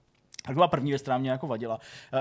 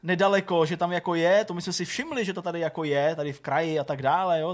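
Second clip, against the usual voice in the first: animated, higher-pitched quote of staff cutting in; imitating knowing staff; 4 semitones higher, 4 dB louder than usual. Hospital staff answering the injured man, mock-knowing and animated. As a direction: mimic people eagerly saying they already know.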